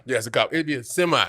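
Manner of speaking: a hint of a paranoid friend locked in at the wheel; mild imitation of a friend focusing hard while driving; mock drunk pep talk. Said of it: "That's how he gets when he's drunk".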